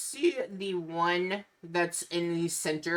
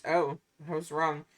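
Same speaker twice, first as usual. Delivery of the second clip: vampire voice. Acted. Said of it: "calls out to the group and says".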